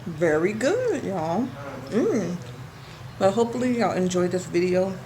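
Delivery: talking through a mouthful of food; mouth full. Real, not acted. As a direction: speak while still chewing. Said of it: "Sorry for talking with my mouth full".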